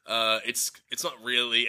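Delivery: hesitant objection. Retold or imitated. Film team timidly correcting Collins, hesitant mock objection. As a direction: gently hedge a correction, halting and quiet. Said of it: "them being like".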